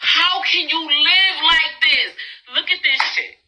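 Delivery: high, strained why in disbelief; mock despairing inner voice; inner exasperation. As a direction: plead in disbelief at the mess. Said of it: "I'm losing it in my mind 'cause it's like".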